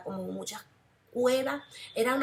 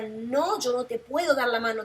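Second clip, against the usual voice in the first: louder, frantic no; retold panicked refusal; desperate refusal; 5 dB louder than usual. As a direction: push him away with your voice. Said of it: "desesperada, gritaba".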